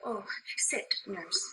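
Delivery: hushed whisper. Acted. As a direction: breathe it gently. Urging the tired nurse.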